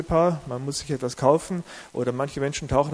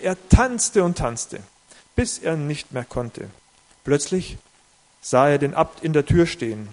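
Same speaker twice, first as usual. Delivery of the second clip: measured, slightly raised storytelling voice; story reading. A narrator's reading. Preacher reading a parable to his church, storytelling voice. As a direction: read the parable to the congregation.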